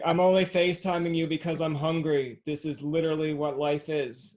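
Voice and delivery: lightly voiced complaining cat; a touch of a put-upon cat. Host voices a hungry cat on FaceTime, lightly put-on cat voice. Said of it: "you have a good cat voice".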